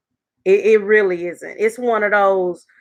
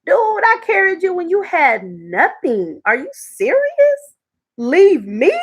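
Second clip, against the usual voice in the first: rising disbelief, climbing high on serious; wife mocking the husband who walked out; incredulous retort; 5 semitones higher, slower than usual. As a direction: throw it back at the husband in shock. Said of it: "I was like".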